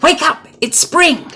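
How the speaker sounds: very high, bright calling; excited call. A narrator's reading. Frog excitedly calling Toad to wake up. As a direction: call out gleefully.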